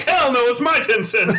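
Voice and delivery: high, slow mock indignant voice; imitating a stingy man; indignant refusal. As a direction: refuse it with a laugh. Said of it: "Be like".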